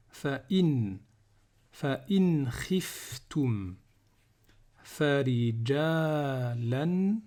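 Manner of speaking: slow, word-by-word verse reading; Quran recitation. Shown as a demonstration. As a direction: recite in pieces with long held vowels.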